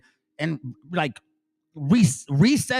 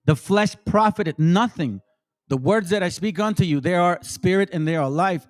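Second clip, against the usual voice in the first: reading out a Bible verse, measured; scripture reading; 3 semitones lower than usual. Real, not acted. Reading John to his listeners, solemn scripture voice. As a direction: read the verse with weight. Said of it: "let me read that".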